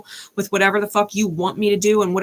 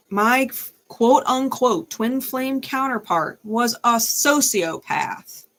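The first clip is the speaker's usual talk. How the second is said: sarcastic; 4 semitones higher, much slower than usual. Real, not acted. Sarcastic air quotes, slow.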